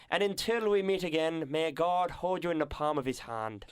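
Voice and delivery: put-on slow, lilting Irish accent recitation. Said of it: "which we're gonna do in an Irish accent".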